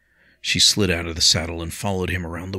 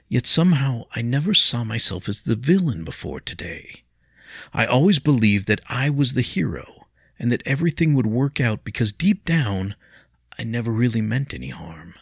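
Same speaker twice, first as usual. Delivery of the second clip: bitter; 6 semitones higher, 4 dB louder than usual. A narrator's reading. William's bitter self-reproach.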